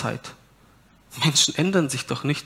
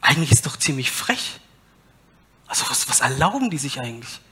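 whisper; faster than usual. Real, not acted. Aside on cheeky people.

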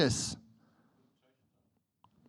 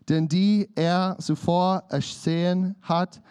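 scripture reading. Acted. Reads scripture aloud.

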